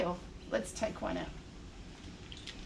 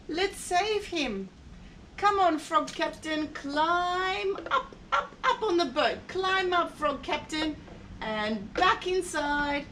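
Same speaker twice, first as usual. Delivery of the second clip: high encouraging voice; 5 semitones higher than usual. Acted. Rescuing toy frog captain.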